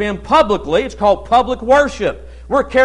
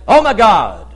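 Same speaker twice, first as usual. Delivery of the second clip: tossed-off Oh my God, a careless habit; flippant exclamation; 4 dB louder than usual. Shown as a demonstration. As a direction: say "Oh my God" lightly, as an empty exclamation. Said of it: "they'll say".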